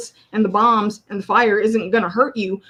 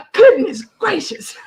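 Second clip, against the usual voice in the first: laughing whisper; 9 semitones higher, 3 dB louder than usual. Real, not acted.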